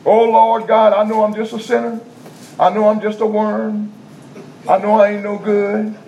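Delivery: high, pitiful mock prayer; false humility. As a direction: grovel in a put-on, high praying voice. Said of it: "they got false humility".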